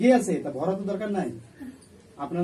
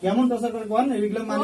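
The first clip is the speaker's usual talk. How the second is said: stern demand; 5 semitones higher, 5 dB louder than usual. Real, not acted. Exorcist interrogating possessed woman.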